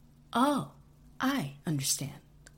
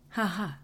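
robotic fake laugh; 3 semitones higher than usual. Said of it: "dissatisfied with my attempt at a laugh".

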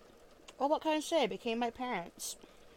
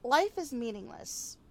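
slow quoted line; 3 semitones higher, slower than usual. Retold or imitated. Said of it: "To paraphrase an old Earth T V show".

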